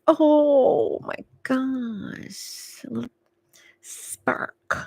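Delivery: smitten gasp. Retold or imitated. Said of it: "They're like".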